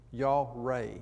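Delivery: Yahweh said slowly as YAH-way, clearly; pronounced correctly. Shown as a demonstration. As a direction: give the name Yahweh its careful pronunciation. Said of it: "is the way it's pronounced".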